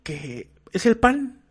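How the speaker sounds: a hint of the Argentine's know-it-all voice; imitating the Argentine. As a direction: Argentine on TikTok mocking Mexico's team. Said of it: "Y dice al final".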